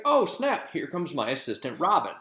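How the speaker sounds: a playful fairy king calling out; Oberon voice. Retold or imitated. Teacher voices Oberon greeting Puck.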